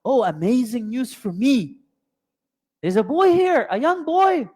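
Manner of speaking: put-on thrilled to find a boy in the well; excited water boy. Preacher voices the water boy's delighted shout of luck. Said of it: "What does he say?".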